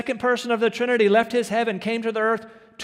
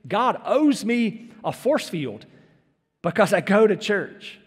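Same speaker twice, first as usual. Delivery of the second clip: mock entitlement; slower than usual. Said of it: "I've heard 'em pull it".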